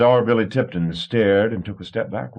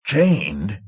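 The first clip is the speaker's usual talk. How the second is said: roared; 3 semitones higher than usual. A narrator's reading. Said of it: "Marsh roared".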